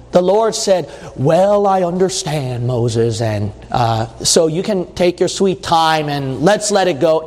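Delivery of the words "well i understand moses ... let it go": mock lenient God. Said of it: "No, the Lord got angry".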